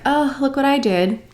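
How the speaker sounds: sarcastic little brag; mock boasting. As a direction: imitate a thief taking credit. Mimics the thief showing off stolen video.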